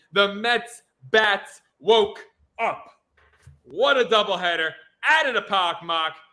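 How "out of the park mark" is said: put-on Boston accent, heard on park and Mark. Recapping a Mets doubleheader, says one line in a Boston accent. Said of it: "I just wanted to say that with a Boston accent".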